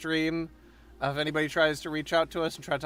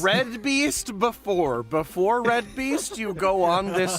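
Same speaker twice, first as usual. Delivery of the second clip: dramatic villain voice; 5 semitones higher than usual. Pretend. Dramatic villain naming on stream.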